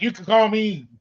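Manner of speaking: put-on a playful Hispanic accent as a kidnapper. Host voicing a kidnapper giving his name in a light Hispanic accent. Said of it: "Sorry for that Hispanic accent".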